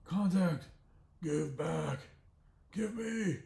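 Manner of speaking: put-on high, loud baby-talk bear; dopey bear demand. The bear yells at Bodhi for his contact, high and loud. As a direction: whine like a clumsy bear.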